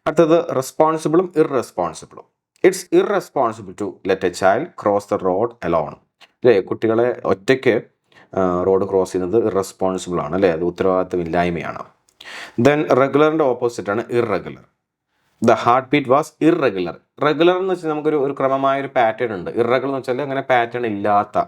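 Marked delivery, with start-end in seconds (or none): 2.7-6.0 It's irresponsible, each word drawn out; slow example read. Shown as a demonstration. Teacher reads the example sentence slowly to students. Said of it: "slow example read". 15.4-17.0 The heartbeat was irregular, drawn out; slow example read. Shown as a demonstration. Teacher reads the example sentence slowly to students. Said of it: "slow example read".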